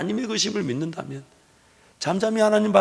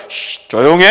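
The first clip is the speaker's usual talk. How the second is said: commanding hush; 4 semitones lower, 9 dB louder than usual. Pretend. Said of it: "천군천사들 한번 쫙 등장시켜가지고".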